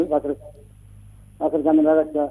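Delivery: muffled phone-line voice. Real, not acted. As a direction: caller on a bad phone line. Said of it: "आपकी आवाज़ साफ नहीं आ रही जी".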